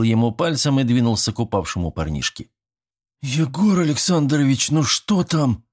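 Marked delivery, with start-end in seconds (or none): 3.2-5.6 put-on higher worried girls' call; anxious girls. A narrator's reading. Schoolgirls call anxiously from the window, higher pitched. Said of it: "взволнованно запричитали сверху девочки".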